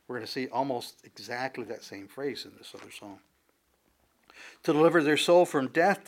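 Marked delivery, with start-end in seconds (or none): 4.6-6.1 proclaiming. Acted. Reading scripture with force.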